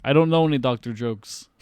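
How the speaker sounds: lightly put-on Russian accent; mock Russian accent. Bond answers Doctor Jones's warning, light mock Russian accent. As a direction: imitate Bond faking Russian. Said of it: "puts on his Russian accent".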